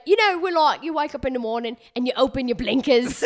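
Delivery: put-on English woman's accent; chatty mock English accent explaining slang; lightly hammed-up English accent; female English accent. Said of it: "like, female accent take".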